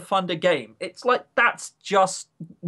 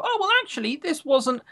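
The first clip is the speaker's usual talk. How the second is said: mock reluctant praise; 10 semitones higher than usual. Mocking players' reaction.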